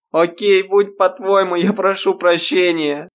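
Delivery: высокий громкий вопль; выкрикни извинение в отчаянии. A narrator's reading. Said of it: "Она завопила". (Ирма вопит, сдаваясь Грейс)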